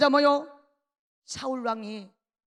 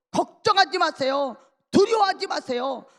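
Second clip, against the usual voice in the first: urgent exhortation; 4 semitones higher, 3 dB louder than usual. Acted. David urging the king not to fear.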